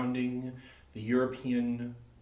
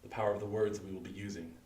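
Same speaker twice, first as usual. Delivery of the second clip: hypnotic induction. Acted. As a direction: lull the audience with a steady hypnotist's count. Stage hypnosis countdown induction.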